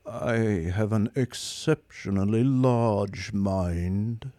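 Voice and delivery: slow, lifeless robot voice; bored superior machine; depressed robot drones on; gloomy robot. Acted. Marvin's voice.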